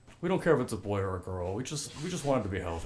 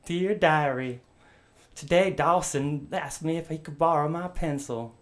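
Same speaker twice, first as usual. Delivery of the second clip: higher, louder schoolgirl voice; lovestruck teen diary voice; 5 semitones higher, 3 dB louder than usual. Pretend. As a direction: read it like a swooning teen's diary. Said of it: "it was like a Dawson's Creek roleplay".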